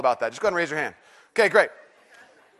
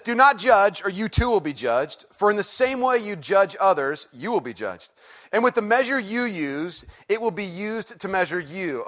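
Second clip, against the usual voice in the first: scripture reading. Acted. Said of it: "Here it says this".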